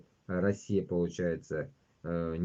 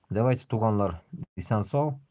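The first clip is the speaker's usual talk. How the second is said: cheerful raised goodbye, pitched up; hearty shouted sign-off; loud farewell; 3 semitones higher, 7 dB louder than usual. Real, not acted. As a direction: call out a goodbye to the audience. Loud farewell to viewers in Tatar.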